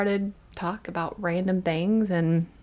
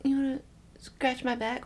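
lightly mimicked higher-pitched request; imitating husband; 6 semitones higher, 4 dB quieter than usual. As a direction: softly mimic a pleading spouse, pitched up. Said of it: "every time that you said".

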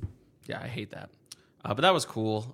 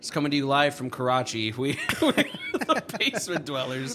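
radio DJ voice; 3 semitones higher, 3 dB louder than usual. Pretend. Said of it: "I sounded like a D J on the radio".

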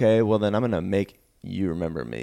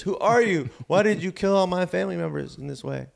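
put-on old woman voice; 8 semitones higher than usual. Ninety-nine-year-old woman asking the intruder who he is, high old-lady voice. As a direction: squeak it like a confused centenarian.

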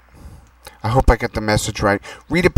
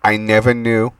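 dictating; 2 semitones lower than usual. Acted. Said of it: "Here's the info".

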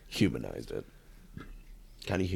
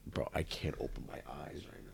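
hushed, dazed stoner whisper; quietly spaced-out and high; 8 dB quieter than usual. Real, not acted. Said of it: "I'm so high right now".

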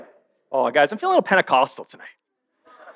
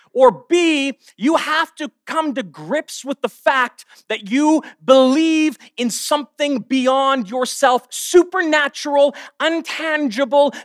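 raised, insistent preacher's delivery; emphatic preaching; 6 semitones higher than usual. Real, not acted. Preacher telling students of a world beyond them, emphatic preaching. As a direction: drive each phrase home to the congregation.

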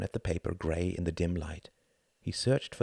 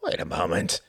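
alarmed cry; 3 dB louder than usual. Acted. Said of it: "cried Count Orski".

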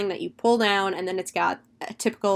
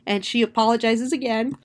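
yawning; 2 semitones higher than usual. Real, not acted. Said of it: "Sorry, got caught by a yawn".

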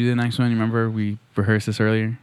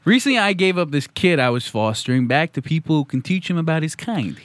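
lightly voiced actor impression; a hint of impression, slightly raised then settling; Alan Alda; 3 semitones higher than usual. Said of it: "That was my Alan Alda impression".

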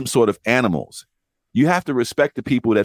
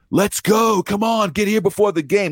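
higher, pushy demand; mock impatient customer; 8 semitones higher than usual. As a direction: read the text like an impatient rider. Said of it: "starts texting me".

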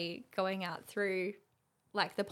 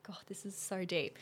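whispered aside; 5 dB quieter than usual. Retold or imitated. Private aside during therapy session.

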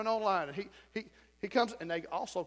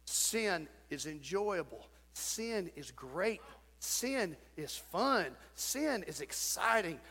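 seductive; 3 semitones lower, 5 dB quieter, slower than usual. Acted. Pastor voicing sin's allure.

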